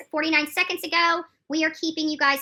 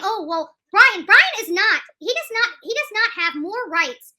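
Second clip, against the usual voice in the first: higher, mocking voice of the dismissive critics; 6 semitones higher, 5 dB louder than usual. Host mocking critics who deny Brian's rights, higher sneering voice. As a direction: sneer it out like the people brushing Brian's rights aside. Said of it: "violating a lot of people's rights by saying".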